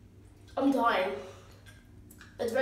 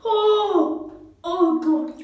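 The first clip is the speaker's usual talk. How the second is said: in ice cold water; 7 semitones higher, 5 dB louder, much slower than usual. Real, not acted. Head dunked in ice water.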